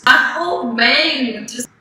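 "bang" stretched so it sounds like "mane". Real, not acted. Recalling an embarrassing moment, slow "bang" heard as "mane". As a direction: drag out "bang" until it nears "mane". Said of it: "Did I say my mane?".

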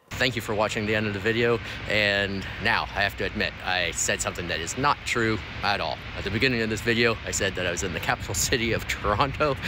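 soft, hushed and quick; quiet confession. Acted. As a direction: murmur it like a secret. Secret message at video's end.

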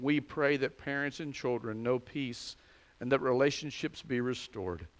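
measured, even liturgical prayer; formal prayer. Real, not acted. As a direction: lead the congregation in solemn prayer. Leads formal congregational prayer.

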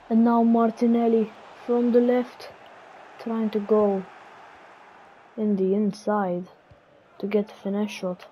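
lively TV match commentary; mock football commentator calling the match; play-by-play commentary. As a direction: call the action like a broadcaster. Self-commentating a football game.

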